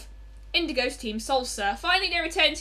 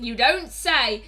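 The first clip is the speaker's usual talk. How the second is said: slow, drawn-out catchphrase voice; Perel; 3 semitones lower, slower than usual. Acted. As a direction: stretch it out as a character's catchphrase. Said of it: "saying that in Perel's voice now".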